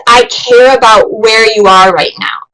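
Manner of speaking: gentle, sincere reassurance; empathetic, caring. Shown as a demonstration. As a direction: say it like you truly care about them. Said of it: "doing it in an empathetic, caring way".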